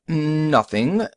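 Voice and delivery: lightly voiced odd stranger, lifted pitch; funny voice. A narrator's reading. Bearded stranger answers the shopkeeper's offer of help, mildly funny voice. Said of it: "said in a funny voice".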